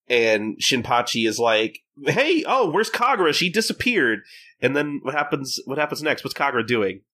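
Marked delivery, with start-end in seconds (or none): 2.1-4.2 much higher, alarmed mid-escape; panicky. Acted. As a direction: blurt it in a panic while running. Shinpachi panicking while fleeing.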